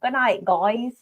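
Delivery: badly faked Australian accent; attempted Australian accent. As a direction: try Australian, slipping toward southern. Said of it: "do an Australian accent with Marty".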